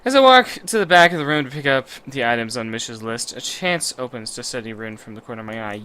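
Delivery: measured, low-key reading aloud; story narration. Acted. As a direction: narrate it as an inner monologue. Reads visual novel narration.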